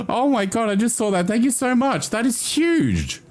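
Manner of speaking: thrilled, pouring out thanks; overjoyed thanks. Real, not acted. Thanking for huge subscription.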